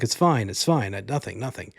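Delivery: lightly voiced husband brushing it off; a hint of a dismissive husband, trailing away; Alfred Molina voice. Husband waving off his wife's worry, lightly voiced. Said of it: "I'm gonna do his voice".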